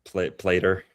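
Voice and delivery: put-on Appalachian accent, "Plater" ending in -ter. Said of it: "My App-, Appalachian accent".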